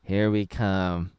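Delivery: mock the movie line as a dull shrug; flat Chris Pratt delivery. Fan mocking the new movie Mario's line, slow flat deadpan. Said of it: "But instead he's like".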